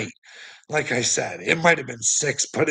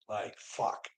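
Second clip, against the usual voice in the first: muttered curse; 12 dB quieter than usual. Retold or imitated. Retold outburst under breath.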